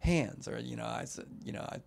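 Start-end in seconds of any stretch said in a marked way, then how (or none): 0.0-0.5 put-on kids' answer. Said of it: "and they say".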